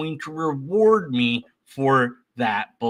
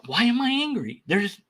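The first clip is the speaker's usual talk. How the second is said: puzzled inner voice; 5 semitones higher than usual. Retold or imitated. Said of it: "and you'll be like".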